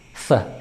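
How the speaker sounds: "th-" alone as a short hissed sound; isolated th sound. Shown as a demonstration. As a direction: isolate the opening "th-" of three. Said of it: "beda th sama c".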